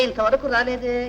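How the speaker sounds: ordinary talk, nothing marked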